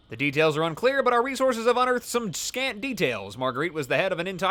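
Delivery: steady newsreader delivery; news anchor read. Shown as a demonstration. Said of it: "I sound like a news anchor".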